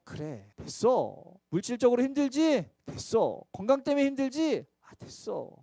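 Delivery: gentle dismissal. Acted. The Lord answering gently.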